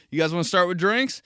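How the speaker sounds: quick waiter's question, rising at the end; server voice. Acted. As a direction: pitch it to the table like a waiter. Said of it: "It's my server tryout".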